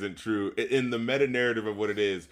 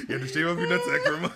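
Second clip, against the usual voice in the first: laughing; 4 semitones higher, faster than usual. Real, not acted.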